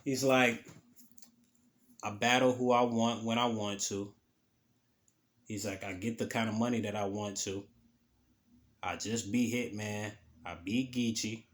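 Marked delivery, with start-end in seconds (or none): 2.0-11.4 low-key, unhurried confidence; a retold calm put-down, a bit softer; calm and composed. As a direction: say it quietly, completely unbothered. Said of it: "real calm, real composed".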